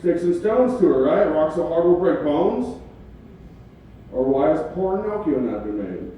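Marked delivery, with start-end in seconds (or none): 0.0-2.8 mock tour hype. Hyping a fake tour.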